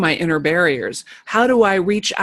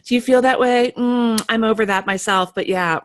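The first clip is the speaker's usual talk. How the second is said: condescending; 4 semitones higher than usual. Retold or imitated. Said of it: "sort of condescending".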